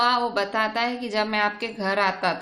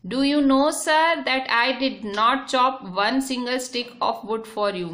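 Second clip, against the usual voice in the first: slow, deliberate reading of the English text; slow reading aloud; 2 semitones higher, much slower than usual. Shown as a demonstration. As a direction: read each word out slowly for the class. Rereads English text slowly.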